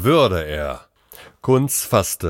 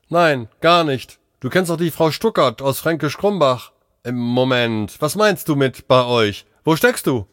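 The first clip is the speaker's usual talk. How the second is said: higher, pressing voice; agitated, raised-pitch questioning; urgent doctor; 5 semitones higher than usual. Acted. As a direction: press your colleague for an answer. Stressed doctor questions colleague.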